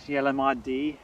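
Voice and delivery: put-on, slightly dodgy Scottish accent. Airport spotter reading out a Loganair arrival, in a shaky-quality Scottish accent. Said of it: "read the rest out in a Scottish accent as well".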